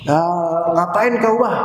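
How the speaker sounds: mildly cynical "ngapain kau bah"; a light scoffing Batak jab; Batak-flavoured mock cynicism; sinis Batak retort.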